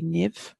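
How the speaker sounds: "niv" as one short syllable ending in v; modern Irish pronunciation. Shown as a demonstration. Teacher giving the modern Irish form, careful pronunciation. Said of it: "in modern Irish".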